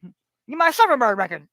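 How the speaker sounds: a quick cartoon-dad impression, dopey and eager; light spoof of a cartoon father obsessed with a song; Peter Griffin. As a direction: toss off a goofy sitcom dad demanding his record. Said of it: "I'm gonna sound like goddamn Peter Griffin".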